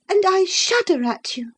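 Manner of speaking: put-on a lovestruck girl digging in; infatuated girl. Isabella defying Catherine, high and stubborn.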